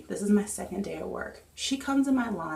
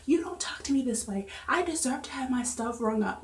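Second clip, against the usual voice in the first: a higher, huffy imitation of the rude customer; mock indignation; 5 semitones higher than usual. Cashier imitating the rude customer scolding her, mock indignant. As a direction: play her outraged entitlement, lightly.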